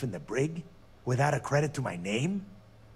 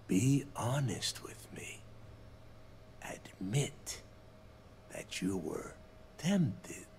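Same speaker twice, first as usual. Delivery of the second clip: whisper; 6 dB quieter, slower than usual. Acted. Coaxing the hero to confess.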